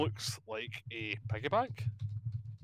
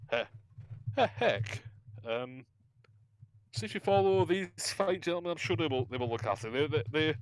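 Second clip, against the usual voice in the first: goblin voice. Acted. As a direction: pitch up like a little goblin. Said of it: "goes, uh".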